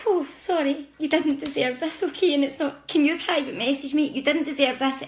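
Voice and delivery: fighting back tears while reassuring; choked up. Real, not acted. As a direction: voice catching with emotion. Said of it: "I feel a bit sad about this".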